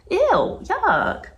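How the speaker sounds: high, squealed ew and yuck; disgusted. Real, not acted. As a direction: shudder it out, pitched high. Disgusted by baby talk.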